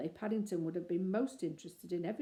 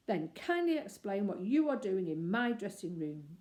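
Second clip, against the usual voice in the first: boomed; 5 dB louder than usual. Acted. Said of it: "boomed the great actor".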